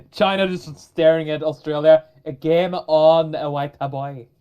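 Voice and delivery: lightly put-on Jamaican accent; slow drawn-out Jamaican lilt. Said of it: "Why do they sound Jamaican?".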